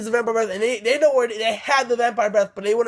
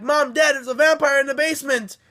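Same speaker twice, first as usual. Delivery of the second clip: higher-pitched mock alarm; retold alarm; 4 semitones higher than usual. Children run to parents from basement, mock alarmed report. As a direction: imitate a kid urgently alerting the parents. Kids alert parents to vampire.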